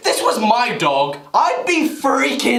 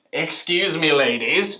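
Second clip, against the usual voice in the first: camp voice; 8 semitones lower, 3 dB quieter than usual. Pretend. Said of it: "I wouldn't exactly go".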